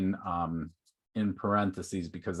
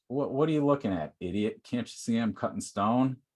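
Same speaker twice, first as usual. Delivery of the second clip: quick, raised, annoyed snapping; irritated snap; 3 semitones higher than usual. Acted. Miserable stone cutter snapping at the traveler, irritated. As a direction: brush off the nosy stranger, irritated. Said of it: "The first guy's miserable".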